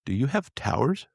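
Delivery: put-on slow, halting Japanese-accented English; light Japanese accent impression; imitated Japanese accent. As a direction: mimic a Japanese tourist asking. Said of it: "He was obviously Japanese".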